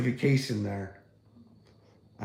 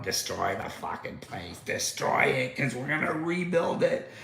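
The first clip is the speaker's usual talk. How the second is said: a put-on voice for the greedy financiers, trailing into a laugh; mock BlackRock. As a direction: ham up the greedy investor scheming. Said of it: "there's BlackRock going".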